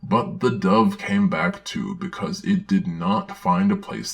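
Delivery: put-on earnest children's-book reading voice; storybook narration. Narrator reading a children's Bible story aloud, earnest storybook narration. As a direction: read it like a Sunday school storybook.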